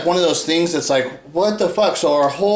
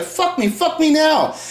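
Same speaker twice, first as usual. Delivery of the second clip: higher, insistent mock demand; 9 semitones higher than usual. Imitating a woman demanding sex, higher and insistent. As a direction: push it like she's demanding. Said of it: "she's just like".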